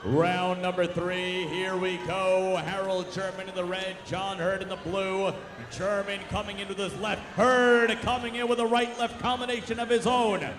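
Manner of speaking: rising ringside call toward the knockdown; play-by-play. Real, not acted. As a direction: call every punch, building excitement. Live play-by-play boxing commentary.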